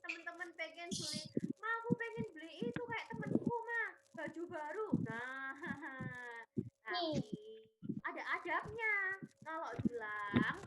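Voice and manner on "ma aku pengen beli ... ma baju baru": higher-pitched plea to Mum; pretend wheedling child. Child wanting new clothes like a friend's, mock wheedling. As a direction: beg lightly like a kid. Voices child begging mother.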